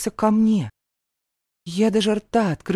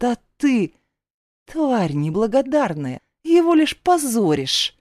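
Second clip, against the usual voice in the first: higher, scornful scolding; scornful snort; 4 semitones higher than usual. Acted. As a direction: sneer down at her, spitefully. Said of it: "фыркнула".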